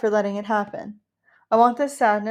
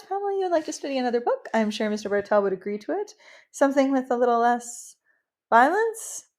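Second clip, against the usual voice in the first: counsellor's voice; 3 semitones higher than usual. Acted. Counsellor suggesting an easier book to upset Pamela, overly careful. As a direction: tiptoe around the crying girl, overly careful.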